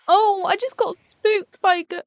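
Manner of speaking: high whiny mock moaning. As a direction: whine it like a complaining sad woman.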